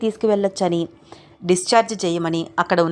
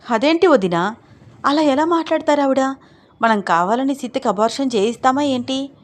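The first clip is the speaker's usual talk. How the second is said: angry protest; 5 semitones higher than usual. Acted. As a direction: protest the accusation hotly. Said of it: "కోపంగా ఆవిడ వైపు చూస్తూ అంది అరుంధతి".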